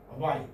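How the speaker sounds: "A while" with weak A, weight on "while"; stress on second syllable. Shown as a demonstration. Teacher repeats the example for students, stress on "while". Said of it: "the accent on the next syllable".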